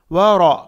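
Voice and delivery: व रा loud, ra thick and rounded; heavy ra. Shown as a demonstration. Teacher isolates the syllable, heavy ra. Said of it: "रा को मोटा पढ़ेंगे".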